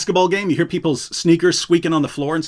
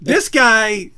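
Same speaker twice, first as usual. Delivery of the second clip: slow disbelief; 4 semitones higher, much slower than usual. Retold or imitated. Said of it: "I'm like".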